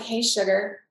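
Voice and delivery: a hint of a Southern temptress saying "Hey, sugar"; Southern accent. Goddess archetype teasing her partner in a light Southern accent. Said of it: "my Southern accent comes out".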